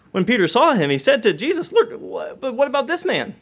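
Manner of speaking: high, loud, worked-up telling; agitated retelling. Acted. Preacher acting out Peter asking about John, high and loud. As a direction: build it up with urgency. Peter's jealous question, voiced.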